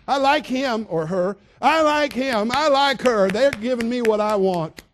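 high, loud, slow silly voter voice; mock gushing voter. Preacher mocking voters who like the pandering politician, high and loud. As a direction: mimic a gullible voter, hammed-up.

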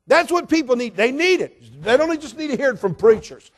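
loud, high, rising sermon voice; fiery pulpit delivery; full-force preaching. Acted. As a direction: preach it hard to the congregation.

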